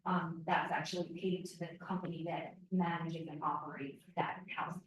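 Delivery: hoarse, voice giving out; losing voice. Real, not acted. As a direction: voice fading into a raspy whisper. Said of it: "I'm losing my voice".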